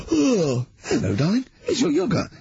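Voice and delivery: high, sweet talking-yogurt voice; breathy vintage purr. Pretend. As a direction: coo it like a cheeky yogurt. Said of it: "he does all as a little scenario".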